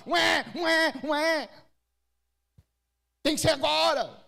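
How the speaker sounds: high imitated wail of a crying baby; preacher mimics a hungry baby crying, hammed up; mock baby cry. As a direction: wail like an impatient newborn.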